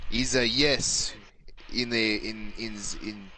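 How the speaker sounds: halting, put-on Hibernian accent. Explaining "oui" to the party, Hibernian accent. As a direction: fumble through it in Hibernian accent. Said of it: "this accent".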